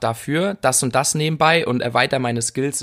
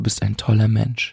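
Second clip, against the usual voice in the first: whisper, lower pitch; 3 semitones lower than usual. Praising a listener, the speaker whispers it into their ear. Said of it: "Ich flüstere dir das jetzt in dein Ohr".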